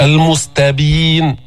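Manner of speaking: slow chanted المستبين with a thin ت and ب; careful recitation of المستبين without heaviness; light letters. Shown as a demonstration. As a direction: draw out the last vowel of المستبين, all letters light. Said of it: "ما تفخم الحروف المستفلة".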